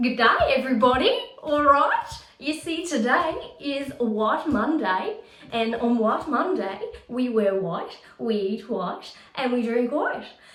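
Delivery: put-on broad Australian accent, laid on very thick. Imitating a woman who eats food by colour: strong australian accent. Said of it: "she talks with a very strong Australian accent".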